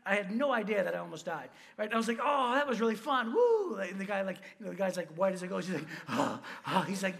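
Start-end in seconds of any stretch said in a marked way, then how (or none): 2.2-3.8 gleeful cheer rising to a high, loud whoop; acted elation. Retells his clueless glee afterwards. 6.1-6.8 low, heavy mock gasps; imitated shocked gasps. Imitates the shocked guide panting.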